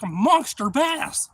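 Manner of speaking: high, loud, slow proud boast; drawn-out brag. Retold or imitated. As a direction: savor every word of the brag. Bragging about the catch.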